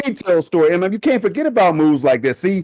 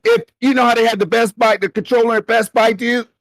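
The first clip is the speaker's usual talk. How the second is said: surfer dude, pitched up; Bill and Ted voice; 6 semitones higher than usual. Retold or imitated. Co-host imitating fans as Bill and Ted, high surfer dude. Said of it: "This is me sound like Bill and Ted".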